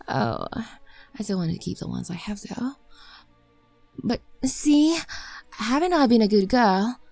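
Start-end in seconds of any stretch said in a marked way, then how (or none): 4.0-7.0 eager begging. Acted. Maid begging master insistently.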